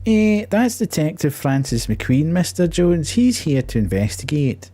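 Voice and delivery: high, eager cop voice; deferential police officer. Acted. Officer introducing detective to householder, high and eager. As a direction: pipe up high to explain.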